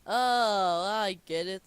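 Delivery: loud, drawn-out dawning delight; sudden realisation. Acted. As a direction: burst out as the joke lands. SpongeBob finally gets the joke.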